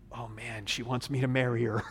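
quiet, fast, laughing under the breath; mock Boaz realizing she wants marriage; amused disbelief. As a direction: chuckle in disbelief at the idea. Boaz's reaction, pastor laughing.

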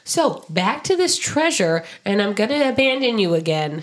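high, fast cheesy dad impression; mock dad voice. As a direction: play the fake-cheerful deadbeat dad. Impersonating Big John.

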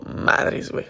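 breathy startled whisper; whispered curse. Retold or imitated. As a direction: hiss it under your breath. Startled aside at the greeting. (maldición susurrada)

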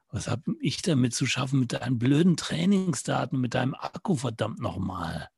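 lightly voiced grumble; annoyed marker. Marker waves off the watch's battery problem, mildly irritated. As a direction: push the request away, irritated.

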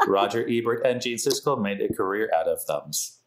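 monotone robot voice; flat robotic delivery. Pretend. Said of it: "this robot voice is like".

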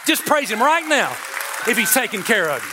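preaching exhortation. Real, not acted. Preacher assuring the congregation they are not alone, exhorting. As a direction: lift the pitch and press the promise home.

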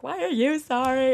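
hammed-up girly questioning; emotional girl. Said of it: "just being a bunch of girls".

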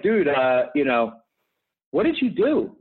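mock disbelief from a colleague; a surprised colleague asking what you did; incredulous coworker. Coworker voiced in story.

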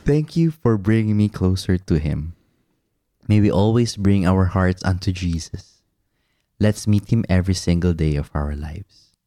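earnest recital, sinking low at the end; dramatic letter reading. Acted. Husband reading thanks in his love letter to his wife, mildly dramatic. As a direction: read it like a solemn little prayer. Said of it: "like, a dramatic voice?".

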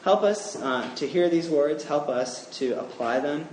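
earnest spoken prayer. Acted. Preacher leads the congregation in closing prayer, earnest. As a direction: pray for the congregation, steady and sincere.

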